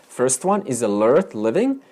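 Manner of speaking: usual speaking voice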